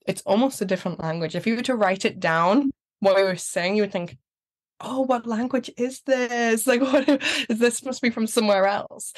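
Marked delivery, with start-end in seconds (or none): 4.8-9.1 higher-pitched mock puzzlement; lightly hammed-up confusion; acted bafflement. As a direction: imitate someone puzzled by a strange language. Voices a baffled reader.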